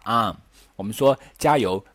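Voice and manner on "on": "on" with the mouth wide open, like "ahn"; American "on". Shown as a demonstration. Teacher shows learners the American sound, "on" wide open as "ahn". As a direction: open right up on "on", American style. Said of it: "就嘴巴张很大".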